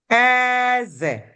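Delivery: "Eze" with a long high E, stepping down on "ze"; high-tone "king" pronunciation. Shown as a demonstration. Teacher contrasting king with teeth, "Eze" high then falling. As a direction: hold "Eze" high, then let it fall. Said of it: "it has different sounds and different meaning".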